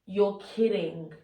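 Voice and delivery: low, soft, let-down oh; teacher reacts to bad news, low and let down; dismayed disbelief. Shown as a demonstration. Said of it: "something bad has happened".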